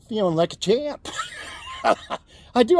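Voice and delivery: bursting laugh, shouting; triumphant laughing shout. Real, not acted. Laughing shout about energy.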